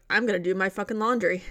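flat matter-of-fact delivery; deadpan. Retold or imitated. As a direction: say it dead straight, no emotion. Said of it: "completely deadpan".

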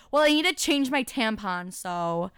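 a hint of a snotty teen; mocking obnoxious girl. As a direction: imitate the classmate's entitled tone. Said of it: "She's like".

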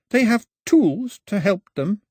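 uncertainly. A narrator's reading. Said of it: "said Pilo uncertainly".

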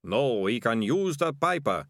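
plainer ratcatcher, slow and dazed; ratcatcher echoing. Acted. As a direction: repeat it like your own idea. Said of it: "said Ratcatcher One".

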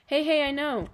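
loud, high burst of excitement; excited. A narrator's reading. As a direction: blurt it out like a sudden bright idea. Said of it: "said Dad excitedly".

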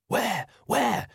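high, urgent, sharp little question; understated hiss, pitched high. A narrator's reading. Magrat questioning Nanny in alarm, a high hiss. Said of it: "hissed Magrat".

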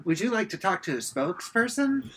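telemarketer pitch. Pretend. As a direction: sell it like a call center. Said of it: "Your car warranty has expired".

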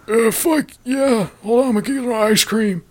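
put-on high, dithering old man voice; distracted, wandering off for ice cream; spacey president. President confirming the launch, high and spacey. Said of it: "Are you sure, Biden?".

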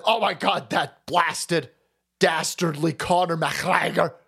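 hammed-up indignation, drawn out at the end; mock-dramatic scolding, stretching the name; mock outrage. Mimicking Irish elites blaming a fighter, mock outraged. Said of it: "all came out and said".

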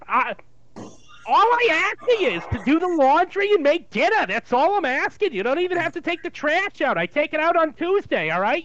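Jewish mother. Acted. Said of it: "a Jewish mother".

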